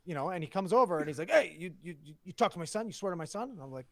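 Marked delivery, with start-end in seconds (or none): 1.3-3.5 loud, higher-pitched mock confrontation; imitating upset dad. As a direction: play an indignant dad challenging someone. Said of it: "getting upset and not leaving".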